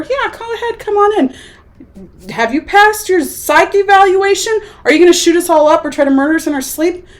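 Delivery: high, mocking gate guard; sarcastic welcome. Soldiers waving in strangers, mockingly high. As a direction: sneer out the easy welcome.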